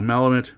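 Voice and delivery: Malamut with a short flat A, as in "pal"; trying a pronunciation. Shown as a demonstration. Card opener unsure of a name, trying out Malamut as MAL-uh-mut. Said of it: "feel like I'm saying that wrong".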